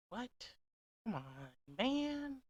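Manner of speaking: mock protest.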